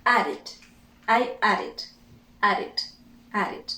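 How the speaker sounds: "Added" in two syllables, ending "it"; "Added" with the -ed as a short separate syllable; extra-syllable ending. Shown as a demonstration. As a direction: drill "Added" with pauses between repeats. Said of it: "that becomes it".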